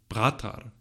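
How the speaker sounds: "bratar" as an approximate Sanskrit root, stressed on the first syllable; Sanskrit pronunciation. Shown as a demonstration. Lecturer attempting Sanskrit for brother, "bratar" stressed on the first syllable. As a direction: say "bratar" carefully with the weight on "bra". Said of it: "excuse my Sanskrit pronunciation".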